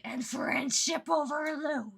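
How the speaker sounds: slow, strained exasperation; anger held down. Real, not acted. Fan ranting about friendship talk, slow suppressed anger. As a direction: seethe word by word, rising as it goes. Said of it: "trying to keep my voice down".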